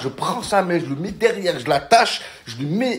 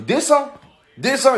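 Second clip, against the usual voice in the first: high mock yelling, get down; threatening; 10 semitones higher than usual. Narrator daring the biker to get off, high and pushy. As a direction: bark it high and repeated. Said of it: "je dis".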